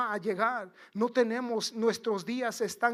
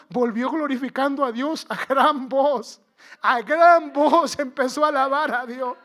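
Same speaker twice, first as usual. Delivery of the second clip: raised, louder scripture proclamation; rousing preaching; 3 semitones higher, 8 dB louder than usual. Real, not acted. Preacher retelling the one leper's return, proclaiming loudly. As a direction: build in volume as you proclaim the verse.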